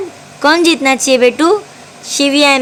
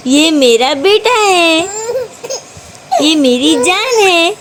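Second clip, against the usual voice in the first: emotional; 6 semitones higher than usual. Real, not acted. Mother overwhelmed with love for baby.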